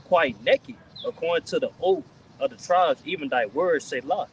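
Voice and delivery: slow, emphatic Bible reading; scripture reading. Real, not acted. Reading Habakkuk to the group, emphatic scripture reading. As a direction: declaim it with drawn-out key words and pauses.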